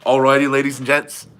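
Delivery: lightly imitated presenter greeting; Ryan Bowen. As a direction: try the catchphrase without deepening it. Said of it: "is that what it is?".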